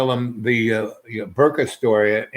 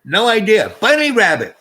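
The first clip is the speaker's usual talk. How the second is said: high, loud dazed sing-song; stoned goofy reply; 9 semitones higher, 5 dB louder than usual. Retold or imitated. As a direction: chant it like a stoned kid. Stoned speaker answers driver.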